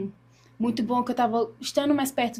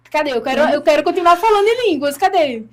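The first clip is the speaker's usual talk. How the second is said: retold eager searching; 3 semitones higher, 6 dB louder than usual. Woman recalls wanting to keep speaking in tongues, retold insistence. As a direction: lightly voice a puzzled, eager demand. Retells her frustrated searching.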